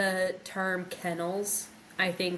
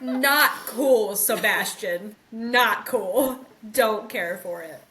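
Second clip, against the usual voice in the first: mock scolding; 3 semitones higher, 5 dB louder, slower than usual. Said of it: "It's like".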